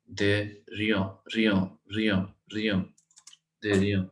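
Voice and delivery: दरिया broken into रिया and rebuilt; teacher repeats दरिया for the class; syllable drill. Shown as a demonstration. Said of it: "डीई means the".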